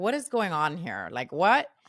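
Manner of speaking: annoyed, irritated tone. Retelling own reply to an editor's warning: retelling own annoyed retort. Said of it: "So annoyed, very, very annoyed".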